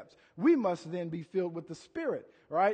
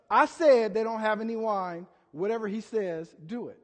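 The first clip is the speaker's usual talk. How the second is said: louder, firm mother insisting; 3 dB louder than usual. Retold or imitated. Mother telling servants firmly, like a mom. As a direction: lay it down like a mom. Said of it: "Just like a mother".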